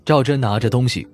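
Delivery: plain reading voice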